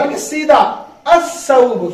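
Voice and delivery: drawn-out الصوب with the lam dropped and the s doubled; pronunciation demo. Shown as a demonstration. Teacher showing the class how الصوب is said, slowly. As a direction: say الصوب slowly, lam silent, as assuh-soob. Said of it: "لام تعریف نہیں پڑھا جائے گا".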